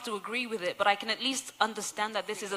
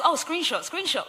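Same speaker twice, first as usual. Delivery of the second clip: high-pitched gleeful mock exclamation; excited, retold; 6 semitones higher than usual. Saving proof because this never happens, playfully excited. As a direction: act out pouncing on rare proof, pitch jumping up. Acts delight at rare apology.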